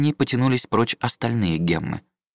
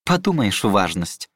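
scoffing; slower than usual. Acted. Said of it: "фыркнула она".

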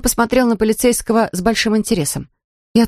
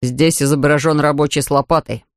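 crestfallen; 5 semitones lower than usual. Acted. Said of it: "упавшим голосом".

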